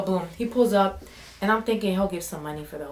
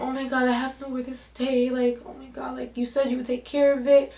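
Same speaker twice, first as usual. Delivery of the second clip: whiny plea; 5 semitones higher than usual. Retold or imitated. Friend crying on phone to him.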